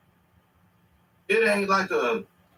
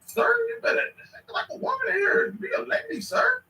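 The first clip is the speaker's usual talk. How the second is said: high squeaky mock of the woman in the clip; shrill-free falsetto mock, teasing her. Vlogger teasing the woman from the video in a high mock voice.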